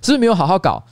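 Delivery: questioning staff. Retold or imitated. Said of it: "我就一个一个追问说".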